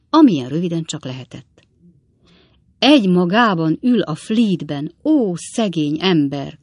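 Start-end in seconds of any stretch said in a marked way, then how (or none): 2.8-6.6 pitying cry for the poor man; exclaim in pity. Acted. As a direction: cry out in sympathy. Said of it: "kiáltott fel az idősebbik Weller úr".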